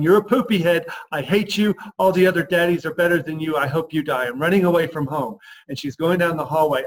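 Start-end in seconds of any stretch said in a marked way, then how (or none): 0.0-5.4 a hint of an upset little girl, loud; mock a sulking child yelling at her dad; little girl's hammed-up tantrum. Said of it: "that nine-year-old girl who's, she's upset".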